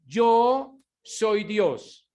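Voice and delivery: slow, weighty voice of God; slow solemn announcement of the divine name; slow divine proclamation. Acted. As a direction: draw it out like God speaking from heaven. Voicing God's self-introduction.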